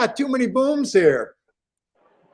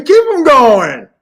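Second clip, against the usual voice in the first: yelling at a horse race; 4 semitones higher, 10 dB louder, slower than usual. Real, not acted. Urging the horse on.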